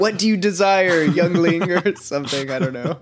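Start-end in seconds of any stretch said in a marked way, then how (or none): 0.0-1.7 lightly grand, mock-formal question; eloquent lion. Lion addressing a young visitor, mildly pompous. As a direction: put on a touch of lofty grandeur. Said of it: "a little more eloquent".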